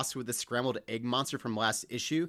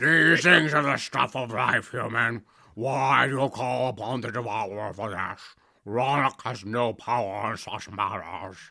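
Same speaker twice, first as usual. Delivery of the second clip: marble-mouthed character voice, as if marbles in mouth; 6 dB louder than usual. Redoing the character's line on request, marbles-in-the-mouth voice. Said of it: "can you do it again more like with marbles in your mouth".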